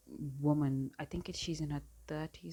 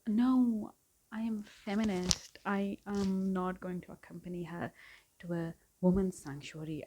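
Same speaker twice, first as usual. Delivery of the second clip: lightly voiced self-righteous man, higher at first; exaggerated mock husband; 3 semitones higher than usual. Imitating the husband who calls himself feminist, mildly exaggerated. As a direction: mimic his pompous refusal, mildly overdone. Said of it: "No, I'm exaggerating".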